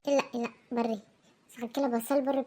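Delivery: soft, teary voice with a sob; tearful goodbye. Acted. Mother tearfully sending her children off on their first school day. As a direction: hold back tears as you send them off.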